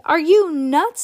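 high, loud disbelieving shout; boy screaming at a crazy idea; screamed. A narrator's reading. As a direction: yell it in disbelief. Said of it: "Sam screamed".

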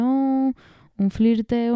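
alargado y más agudo, en tono pícaro; coqueto. Pretend. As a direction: dilo como insinuando un romance. Coqueteo entre los dos famosos. ("flirteo" estirado con picardía)

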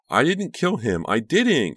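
high, loud frantic denial; screeching. A narrator's reading. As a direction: screech it out of control. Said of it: "Karina screeched".

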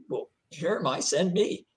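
tentative offer, lifting at the end; volunteer a little timidly, rising on "send me"; mildly timid. Retold or imitated. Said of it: "I think I was more timid than that".

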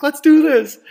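high, loud battle cry; pumping yourself up for a fight; hype shout. Retold or imitated. Two friends slapping each other before a fight, hype shout.

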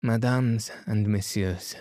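lightly voiced French-accented detective; a touch of formal address in a French accent; Poirot. Poirot opening his address to the gathering, lightly accented.

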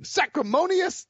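slow, high, indignant lawyer's outrage; drawn-out, pitch climbing with each word; Jackie Chiles impression. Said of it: "That's my Jackie Childs impersonation".

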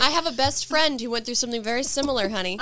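Candy voice. Pretend. Playing Candy as counselor.

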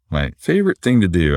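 dryly sarcastic, with emphasis on favorite. Real, not acted. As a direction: say it as if you mean the opposite. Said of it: "I say that very sarcastically".

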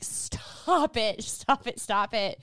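high-pitched, urgent mock plea; desperate pleading. Podcaster voicing the heroine pleading to stop, desperate. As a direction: imitate someone barely holding on. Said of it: "she's trying her best not to orgasm".

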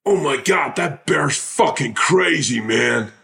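high, slow, drawn-out amazed cry; stunned exclamation. Retold or imitated. Ambulance driver turns to someone about the bear, high slow stunned cry. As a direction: gape at the bear and let it out big and slow. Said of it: "me turning around to someone going".

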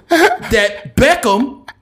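loud, high, slow gossiping pundit; Stephen A. Smith. Retold or imitated. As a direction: arch knowing insinuation, drawn out loud. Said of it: "Stephen A. Smith be like".

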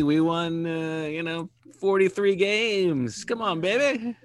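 high, drawn-out stoner voice; lazy laid-back stoner. Acted. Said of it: "I'm giving him a stoner voice".

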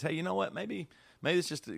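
lightly imitated positive wife. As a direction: lift the pitch to imitate her optimism. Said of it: "being positive about it".

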